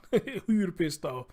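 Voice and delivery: laughing while asking. Real, not acted. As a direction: repeat it through a laugh. Repeats it laughing.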